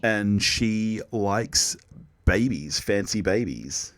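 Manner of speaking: slow, lightly put-on Kiwi accent. Teased co-host carrying on the slow mock Kiwi accent. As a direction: draw it out with a touch of Kiwi. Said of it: "Why are you talking like a Kiwi?".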